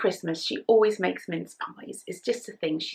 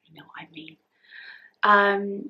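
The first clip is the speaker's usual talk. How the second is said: usual speaking voice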